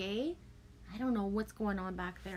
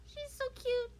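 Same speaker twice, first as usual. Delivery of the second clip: cooing; 4 dB quieter than usual. Real, not acted. Grandparent cooing at the baby granddaughter, high.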